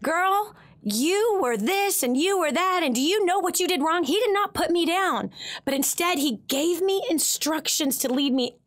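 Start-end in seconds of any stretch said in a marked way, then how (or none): 0.0-4.0 mock scolding. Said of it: "He didn't sit there and say".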